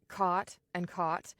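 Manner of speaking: two slow words, "caught" with long "aw", then short "cot"; distinct RP vowels. Shown as a demonstration. Teacher contrasting RP words, "caught" long and rounded against "cot". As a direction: keep "caught" and "cot" clearly apart, slowly. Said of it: "are distinct from each other in an R P accent".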